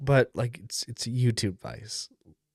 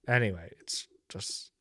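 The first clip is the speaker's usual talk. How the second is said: whisper; 6 semitones lower, 7 dB quieter than usual. Real, not acted. Muttered aside, unvoiced.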